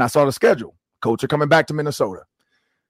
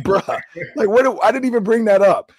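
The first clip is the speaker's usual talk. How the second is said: exasperated disbelief; 8 semitones higher than usual. Retold or imitated. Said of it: "I'm like".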